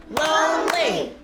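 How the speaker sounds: Lonely slowly clapped as two beats, lone-ly; split into syllables. Shown as a demonstration. Teacher tries the count again, Lonely in two slow beats. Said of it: "Clap the syllables with me".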